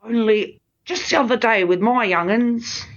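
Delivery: a light, hammed-up bad British accent. Jolly chimney sweep in bad British accent. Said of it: "I'm joining in the bad accent now".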